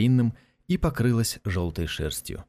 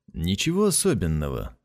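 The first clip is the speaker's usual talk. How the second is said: good-natured; 4 semitones lower than usual. Acted. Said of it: "благодушно заметил продавец шаров".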